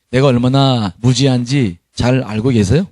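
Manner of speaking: usual speaking voice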